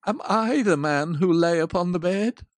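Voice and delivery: frightened question flung at the ghost; cried out. Acted. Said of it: "he cried".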